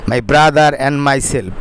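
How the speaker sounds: very slow, careful English reading; slow model reading. Shown as a demonstration. Teacher reading the sentence slowly to students. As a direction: read it word by word for the class. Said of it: "slow model reading of English".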